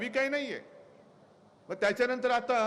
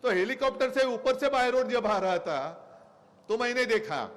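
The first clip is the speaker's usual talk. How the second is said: imitating Modi; 3 semitones higher than usual. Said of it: "असं ते बोललेत".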